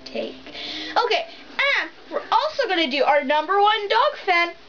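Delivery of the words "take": echo. Pretend. Fading echo of the title.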